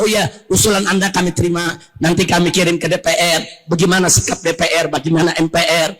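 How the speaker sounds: a hint of a composed bureaucrat; lightly acted official. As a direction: lightly imitate an official acknowledging a proposal. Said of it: "itu pejabat".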